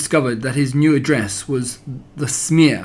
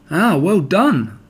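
slow, kindly praise; drawn out approval, kind and pleased; gentle well done from Rabbit; 4 semitones higher, much slower than usual. Acted. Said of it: "said Rabbit kindly".

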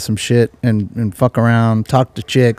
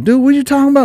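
playing dumb; 11 semitones higher, much faster than usual. Denying again to boyfriend.

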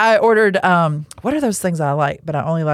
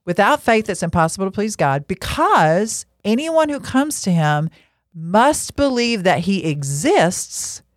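read it again. Acted. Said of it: "I wanna read it one more time".

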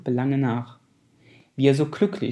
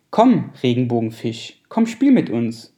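calling out; 7 dB louder than usual. Acted. Fish calling to rainbow fish.

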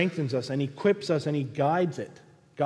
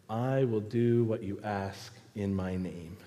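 lower, softer measured promise; lightly voiced, settle into quiet assurance; Jesus responding; 5 semitones lower, 5 dB quieter than usual. Jesus answering a plea for help, soft low assurance. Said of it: "he responds through his word".

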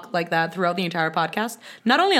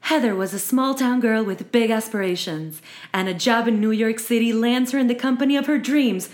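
movie trailer voice. Pretend.

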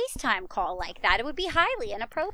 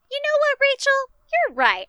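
imitating friend; 14 semitones higher, 4 dB louder than usual. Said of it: "And you were like".

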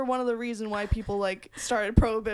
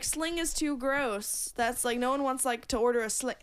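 hammed-up 1920s Chicago gangster accent, slipping Jamaican; mock 1920s Chicago mobster accent. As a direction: play a 1920s Chicago mob boss ordering, in a wobbly put-on accent. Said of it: "I don't know what accent that".

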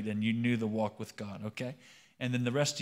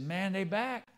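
raised-pitch Cajun character; Cajun accent; 6 semitones higher, slower than usual. Acted. Thibodeau warning Boudreaux in a joke, Cajun accent. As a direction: say it higher, in Cajun dialect. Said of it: "start talking like a Cajun".

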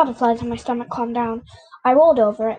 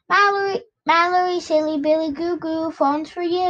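calling sister; 4 semitones higher than usual. Acted. Child calls her sister.

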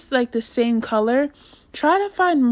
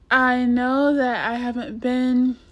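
hoarse, scratchy raspy voice; rough raspy throat. Real, not acted. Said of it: "excuse my voice".

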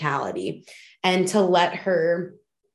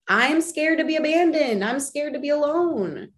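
put-on scared inner child; 9 semitones higher than usual.

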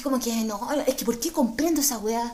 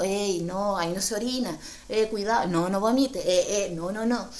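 warning inner voice; 4 semitones lower than usual. Retold or imitated. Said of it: "te va alertando".

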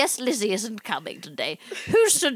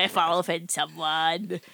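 mock-Cockney, a bit softer; put-on British accent; 5 semitones lower, 3 dB quieter than usual. Pamela avoids offending someone, softer put-on British accent. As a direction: tail off in a fake British accent. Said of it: "where did you get the accent from".

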